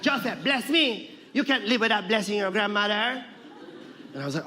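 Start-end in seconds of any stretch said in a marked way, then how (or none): 0.0-3.2 Lola Tinay. Retold or imitated. Grandmother demands a blessing as grandson leaves, high and insistent. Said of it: "And she was like".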